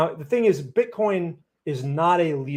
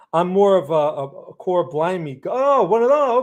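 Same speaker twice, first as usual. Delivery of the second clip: attempted British accent; 3 semitones higher, 4 dB louder than usual. Streamer playfully trying out a "cor blimey" British accent. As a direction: put on a rough American's idea of British. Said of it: "That's beyond my British".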